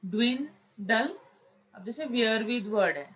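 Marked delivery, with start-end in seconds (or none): 0.0-1.2 ड्विंडल drawn out slowly, syllable by syllable, rising at the end; teacher stretches ड्विंडल with a rising finish; slow demo word. Shown as a demonstration. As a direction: spell out ड्विंडल slowly for the class. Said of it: "symbol तो बन गया win".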